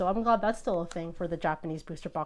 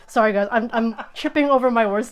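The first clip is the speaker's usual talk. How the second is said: real excitement, louder and laughing; bubbling over, tripping on the words; excited; 5 dB louder than usual. Real, not acted. Apologizing to viewers for stumbling over words, excited. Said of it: "I'm so excited about".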